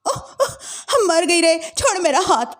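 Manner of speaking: pained wail; cry of pain. Acted. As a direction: yelp as arm is twisted. Arm twisted, cries out.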